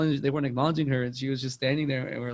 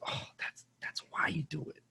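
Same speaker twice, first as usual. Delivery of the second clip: imitated whisper, much softer; hushed whisper; 3 semitones higher, 11 dB quieter than usual. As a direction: breathe it out as a knowing secret. Winkler answering softly.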